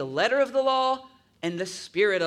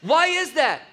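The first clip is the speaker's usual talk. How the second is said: emphatic; 8 semitones higher, 7 dB louder than usual. Real, not acted. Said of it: "emphatic preaching".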